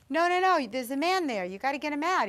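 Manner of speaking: high, loud, insistent protest; retold urgent plea. Woman begging the station manager to get a man out, retold urgent plea. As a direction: plead urgently, as if someone is trapped.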